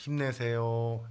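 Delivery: slow, gentle "힘내세요" for the neighbour; encouraging demo. Shown as a demonstration. Pastor models comfort for the congregation, slow and gentle. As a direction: say it slowly, like cheering someone on. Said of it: "다음과 같이 이렇게 하는 거".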